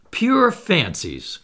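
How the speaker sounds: loud-ish, high, slow dismissive cry. A narrator's reading. Opponent scoffs at the speaker's moon theory, crying out. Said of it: "cried the unknown".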